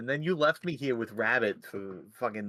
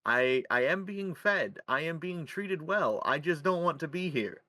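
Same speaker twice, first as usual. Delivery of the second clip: podcast host intro; 3 semitones higher than usual. Acted. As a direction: state it carefully, like a hostage presenter. Host continues the mock captivity bit.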